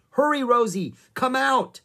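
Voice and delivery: high, loud urgent coaxing; yelling. A narrator's reading. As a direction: yell to hurry the rhino. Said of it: "yelled Annie".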